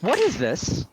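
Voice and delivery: authoritative demand. Acted. Committee head confronting the troublemakers, mildly indignant. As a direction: demand answers as the one in charge.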